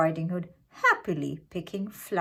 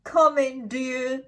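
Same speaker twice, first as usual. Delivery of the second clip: a lightly sweetened, higher wolf; wolf's nicest voice; 6 semitones higher than usual. Acted. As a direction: put on a sugary grandma welcome. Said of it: "in his nicest voice".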